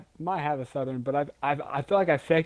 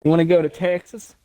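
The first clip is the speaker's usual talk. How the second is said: louder, overdone Southern accent; exaggerated Southern; 3 semitones higher, 6 dB louder than usual. Shown as a demonstration. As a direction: lay the Southern accent on thick. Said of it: "start trying to do it really over exa".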